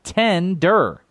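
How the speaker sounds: "Tender" with short e, like ten; "Tender" said with the ten vowel. Real, not acted. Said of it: "You are saying tender for both things".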